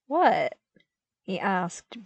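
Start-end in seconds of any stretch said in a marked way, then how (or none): 0.1-0.6 bewildered. A narrator's reading.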